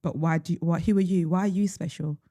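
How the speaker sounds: deadpan mock advice; dry, understated sarcasm; sarcastic. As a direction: give awful advice as if sincere. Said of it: "I hope you hear the sarcasm".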